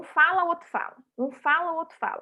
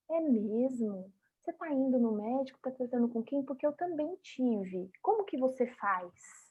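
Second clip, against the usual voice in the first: caring reply; 7 dB quieter than usual. Shown as a demonstration. Her caring reply in the example.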